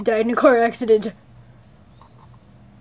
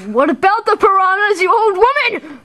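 mocking; 6 semitones higher than usual. Kid mocks old woman.

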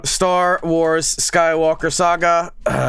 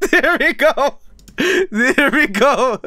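excited; 7 semitones higher than usual. Real, not acted. Finally finding the game.

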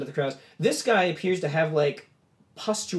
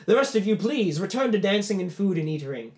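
gracious host; 4 semitones higher, 3 dB louder than usual. Acted. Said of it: "Lalos goes".

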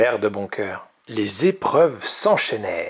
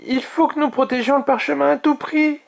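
anxious urging. A narrator's reading. Anxious dragon urges protecting scroll.

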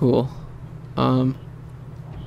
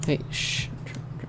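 hushed whisper; 12 dB quieter, slower than usual. Real, not acted. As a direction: shush him in a whisper. Hushing friend while playing.

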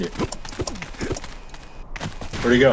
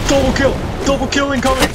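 high, loud triumphant yell; excited shout; 12 semitones higher, 4 dB louder, faster than usual. Real, not acted. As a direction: whoop over the kill. Celebrating a double kill.

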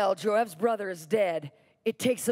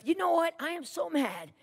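higher-pitched mock indignation; imitated angry declaration, pitched up; retold anger; 3 semitones higher than usual. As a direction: act out a mild, emphatic tirade. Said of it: "He gets so mad".

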